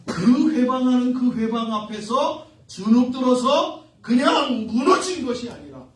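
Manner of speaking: loud, emphatic sermon build-up; forceful preaching. Acted. Preacher recounting the blind men's persistence, loud emphatic delivery. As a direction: push each phrase out firmly.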